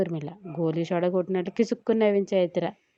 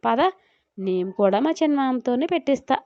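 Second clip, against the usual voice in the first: higher, lively and eager; cheerful; 4 semitones higher than usual. Acted. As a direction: bounce off with it, upbeat. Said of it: "హుషారుగా వెళ్ళింది జాను". (హుషారుగా, ఉత్సాహంగా)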